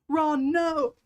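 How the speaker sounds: high, giggly quoted wail; laughing mock cry. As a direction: squeal it through a laugh.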